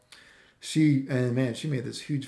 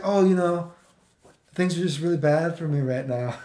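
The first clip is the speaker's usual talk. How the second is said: mock woe, pitched up at the start; imagined girl's voice; 3 semitones higher than usual. Girl messaging him out of the blue, mock woe. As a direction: imitate her complaining, half laughing. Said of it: "I'm imagining that's how she talked".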